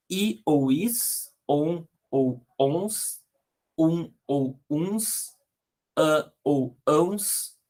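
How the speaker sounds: very slow, each ending set apart; slow dictation. Shown as a demonstration. Teacher dictating endings to students, very slowly.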